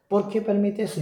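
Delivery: a mild echo of weeping despair; retold anguished plea. Man recalling weeping before the lake of fire: pleading question. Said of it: "lo único que hacía era llorar".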